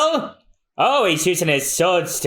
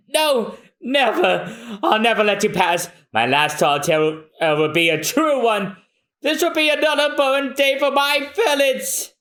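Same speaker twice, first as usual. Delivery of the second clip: defiant cry; 6 semitones higher than usual. Acted. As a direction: vow it high and defiant. Defiant stand.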